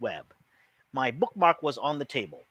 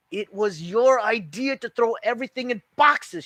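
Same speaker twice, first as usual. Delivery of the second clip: squeaky voice; 8 semitones higher, 5 dB louder than usual. A narrator's reading. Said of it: "her voice squeaking".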